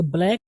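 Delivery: ब्लैक with a short, jerked "e"; slight jolt. Shown as a demonstration. Teacher modelling for learners, ब्लैक with a slight jolt. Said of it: "थोड़ा झटका देंगे".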